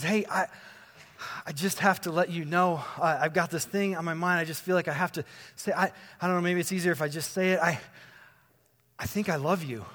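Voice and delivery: halting, nervous-sounding retold confession; hesitant confession. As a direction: stumble toward it, pausing before admitting it. Retold hesitant airport love confession.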